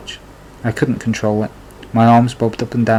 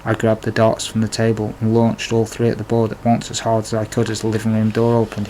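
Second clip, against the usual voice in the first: ordinary delivery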